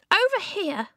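very high, weedy little man; tart reply. A narrator's reading. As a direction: call it out tartly in a squeaky voice. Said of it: "came a tart reply".

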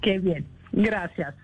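Swedish accent Spanish. Real, not acted. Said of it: "perdonen mi español".

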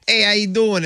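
light Italian-American greeting shtick; Italian-American accent. Acted. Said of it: "I start talking like this".

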